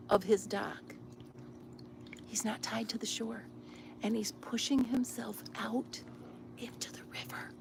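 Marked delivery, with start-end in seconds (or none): 2.3-7.5 whispering. Real, not acted. Whispering about the neighbor.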